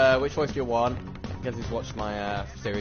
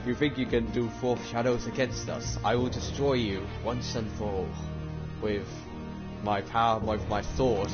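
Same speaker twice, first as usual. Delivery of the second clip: booming villain hero voice; hammy stage actor. Acted. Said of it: "please continue with your acting voice".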